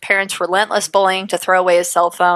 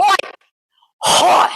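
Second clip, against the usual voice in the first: high, loud German Hoi; 11 semitones higher, 3 dB louder than usual. Shown as a demonstration. Host jokingly switching to German, loud hoi. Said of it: "That's German".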